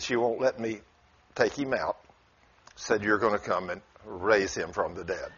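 low, softened storytelling voice; hushed retelling. Retold or imitated. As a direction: drop low and quiet for the sickroom scene. Hushed retelling of the hospital room.

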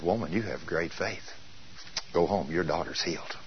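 low, soft pronouncement; gentle granting. Retold or imitated. Jesus telling the woman her daughter is healed, quiet and gentle. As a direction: grant it quietly, pitched well down.

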